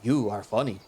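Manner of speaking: childish mock of his voice; childish mocking imitation. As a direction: playfully mimic his stilted speech, exaggerated. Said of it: "imitate his voice childishly".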